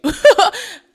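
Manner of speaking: sudden high, loud laugh; burst of laughter. Real, not acted. Vlogger recalling the doctor's warning, laughing out loud. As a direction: crack up at the memory.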